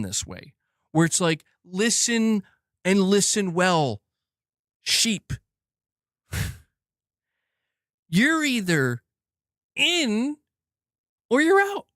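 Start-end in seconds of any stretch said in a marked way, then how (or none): 1.6-11.9 slow, deliberate ultimatum, rising at the end; imperious mock villain. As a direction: lightly play a company ordering its sheep. Voices companies addressing their sheep.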